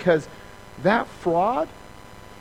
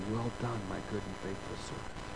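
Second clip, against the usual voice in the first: softer, lower, tender praise; a hint of a gentle lordly voice; 8 semitones lower, 16 dB quieter than usual. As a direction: speak as God blessing a servant. Voicing the Lord's praise.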